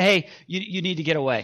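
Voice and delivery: imitated gentle, casual voice. Retelling how his wife first tells him to get away: imitating a subtle, casual remark. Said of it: "it starts very subtle".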